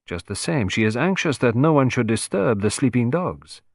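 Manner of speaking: a hint of a grand little Frenchman summoning his servant; Poirot calling valet. Poirot plotting aloud.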